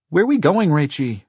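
put-on very high, loud child question; whining little boy. A narrator's reading. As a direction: ask big sister like a small boy. Little brother asks while dragged along.

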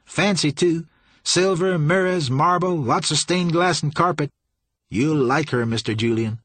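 high, eager henchman's boasting; excited Sour Billy. A narrator's reading. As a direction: reel off the riches with relish.

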